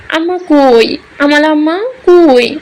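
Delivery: put-on lightly childlike plaintive voice; a hint of a small child's whimper; little girl asking for mother. Child on her mother's grave, mildly tearful.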